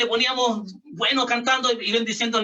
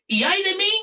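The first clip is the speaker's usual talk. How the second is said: lamento; 9 semitones higher than usual. Acted. Predicador clama lamento de Pablo.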